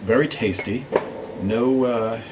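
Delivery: talking while sipping tea; words around a mouthful; mouth full. Real, not acted. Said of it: "talk with your mouth full".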